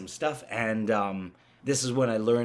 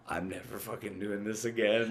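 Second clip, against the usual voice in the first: laughing vow; 3 dB quieter than usual. Retold or imitated. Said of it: "and I was like".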